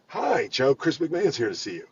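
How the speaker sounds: easy, sure greeting, no hesitation; assured and welcoming. Retold or imitated. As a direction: announce the guest like good news. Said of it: "All the difference in the world".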